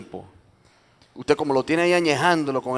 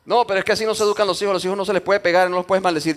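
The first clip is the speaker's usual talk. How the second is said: fast, higher protest; indignant arguing; 6 semitones higher, 3 dB louder, faster than usual. Acted. Parent arguing back at the Holy Spirit, indignant. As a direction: argue back quickly, pitched up.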